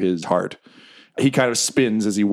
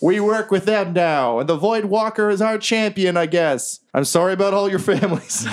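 high-pitched goblin announcement; goblin leader; 9 semitones higher than usual. Acted. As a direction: address the crowd in a high voice. Jerry lays down terms to goblins.

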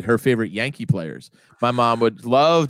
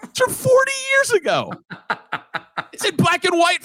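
exasperated son. Retold or imitated. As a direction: spell it out to a clueless dad. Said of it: "I go".

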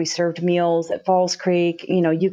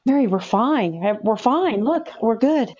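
higher-pitched, insisting all is well; retold insistent reassurance; 3 semitones higher, slower than usual. Telling crying Mary that they are fine, imitated insistent reassurance.

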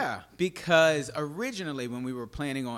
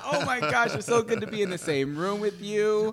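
breathy vintage purr; 9 semitones higher, 5 dB louder than usual. Pretend. Gushing greeting to co-host.

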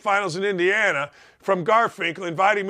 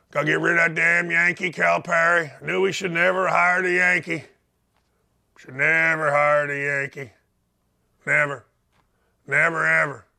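put-on Kentucky accent; 3 semitones lower than usual. Host voices a Kentucky fan grumbling, lightly put-on Kentucky accent. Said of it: "do the whole show in a Kentucky accent".

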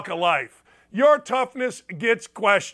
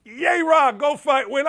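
hammed-up cheerleader chant, pitched up; mock pep-rally cheer; mock rah-rah cheer; 4 semitones higher than usual. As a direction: parody a gushing team farewell. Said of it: "long-winded pronouncements that I love my team".

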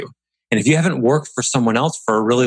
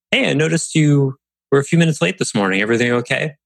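casual notice; 4 semitones higher, faster than usual. Shown as a demonstration. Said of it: "a very casual, non-authoritative noticing".

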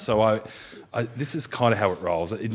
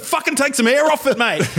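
high, loud coach bark; mock coach yell; 5 dB louder than usual. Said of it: "I said".

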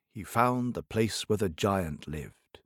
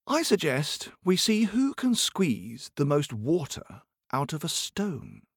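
slow, higher proposal; tailor voice; 4 semitones higher than usual. Acted. Tailor proposing the stone contest, slow and lightly higher. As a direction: announce it grandly.

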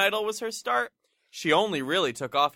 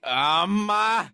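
exasperated; 2 semitones higher, 3 dB louder than usual. Retold or imitated. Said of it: "that's when he's exasperated".

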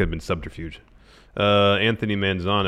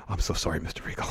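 quiet apology; 3 semitones lower, 9 dB quieter, faster than usual. Retold or imitated.

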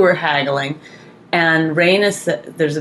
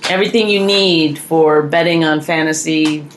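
sponsor plug. Acted. Host plugging a fantasy sports site, announcer-style. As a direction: stretch out the sponsor's name like an announcer.

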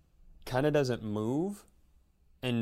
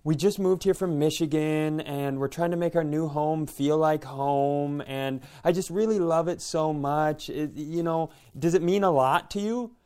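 lightly voiced pushy PTA mom; aggressive dance-mom; 3 semitones higher than usual. Mom begging shopper for the mug, lightly pushy dance-mom pleading. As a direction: press the plea in a raised, insistent pitch. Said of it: "this very aggressive P T A".

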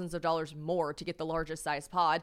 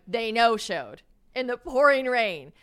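outraged repeat; 4 semitones higher, 9 dB louder, slower than usual. Retold or imitated. Outraged at no-show movers.

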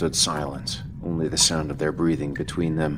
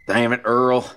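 exasperated; 6 semitones higher, 6 dB louder than usual. Acted. Dale sitting in chili.

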